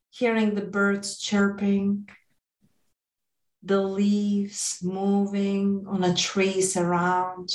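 calm, gentle meditation guide; guided meditation. Acted. Leads a guided visualization.

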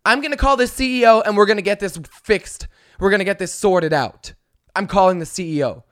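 mocking the entitled passenger's threat; mocking imitation. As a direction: ham up her self-importance. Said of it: "She dropped".

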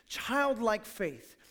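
put-on childlike faith drawn out slowly, each word weighted; slow emphasis. Shown as a demonstration. Pastor repeating the key phrase to the church, slowly. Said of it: "It's called childlike faith".

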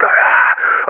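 short voiceless "ah"; acted cry. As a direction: mimic a wrestler's breathy cry. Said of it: "she's like".

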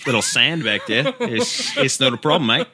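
amused put-on Aussie; Australian accent. Aussie dismissing a dirty outback problem, Australian accent. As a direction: play an easygoing Aussie, accent and all. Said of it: "I'm not great at Australian".

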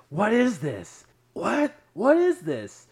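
high, loud shrieks of disbelief; escalating mock-horrified yelling; imitated shriek. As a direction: mimic someone shrieking in alarm. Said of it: "just a loud shriek of".

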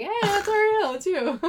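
put-on high, slow, sing-song girl voice; chirpy girl imitation; high girly voice. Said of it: "she's like".

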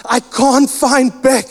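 imitating a mildly frantic caller; frantic phone call.

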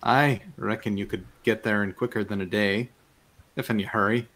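put-on country fisherman's Marish accent. Fisherman advising travellers on the journey, Marish accent. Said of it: "talking in this accent because it's amazing".

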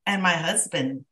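dry sarcastic thanks, understated. Real, not acted. Host on never doing chores as a child, sarcastic. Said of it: "I say that sarcastically".

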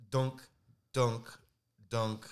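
imitated dunking sound. Friend retelling the toothbrush's fall, imitated dunks. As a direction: mimic something bouncing, with pauses between. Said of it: "It was like".

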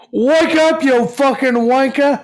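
high, slow mock Aussie yell; Australian accent. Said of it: "like a Caps accent".

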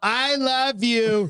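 high, drawn-out mock adoration; gushing love. Wife mimicked swinging from hating to loving, gushing. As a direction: stretch it out in a sweet, high lilt.

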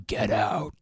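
harsh, voiceless demon whisper; rasping whispered demonic command. Acted. Demon ordering the priest out of the house, demonic whisper. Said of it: "a demonic voice uttered behind him".

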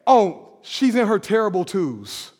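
low, soft, shrugging tone; dismissive excuse. Retold or imitated. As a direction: brush it off like a cliché. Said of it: "What do we say?".

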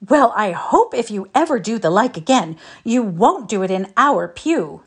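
severe. A narrator's reading. Felicity scolds Peter about the pew, severely. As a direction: scold him like a strict aunt. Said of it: "said Felicity severely".

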